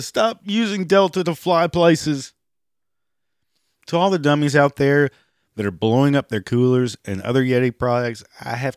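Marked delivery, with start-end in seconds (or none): 0.0-2.3 high mock voice of an angry boycotter; high mocking parrot of the boycotters. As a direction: parrot the outraged customers, pitched way up. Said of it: "they said they were boycotting Delta".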